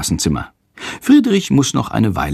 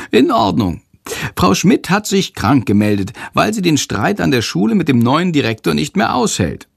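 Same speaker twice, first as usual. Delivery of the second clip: higher, quick creature voice; Shandor's voice; 7 semitones higher than usual. Acted. Shandor tells Jendrik school gossip, eager. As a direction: tell the gossip in the little creature's voice.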